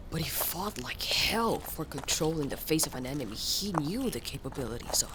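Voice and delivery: soft hushed whisper. Acted. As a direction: let it fall to a whisper. Hushed reflective aside.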